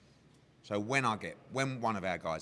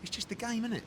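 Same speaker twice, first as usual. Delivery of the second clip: higher, wry shrugging voice; amused disbelief; 14 semitones higher than usual. Retold or imitated. Eddie's thought after the call, wry amused disbelief. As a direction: laugh it off to yourself. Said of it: "And I just thought".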